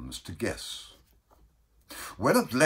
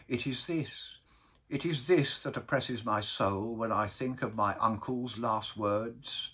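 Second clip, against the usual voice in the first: mildly overwrought, earnest lament; anguished Baker; 4 semitones higher than usual. Acted. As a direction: confide a dread that weighs on the soul.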